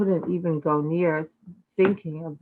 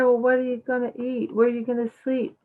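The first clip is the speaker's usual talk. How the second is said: higher-pitched father asking, quickly at the end; a gently teasing father, pitched up; lightly voiced father; 6 semitones higher, faster than usual. Nanda questions runaway son.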